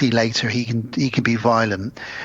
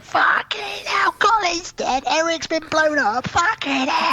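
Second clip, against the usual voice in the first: mock stunned whisper; slower than usual. Mimicking the stunned gangster.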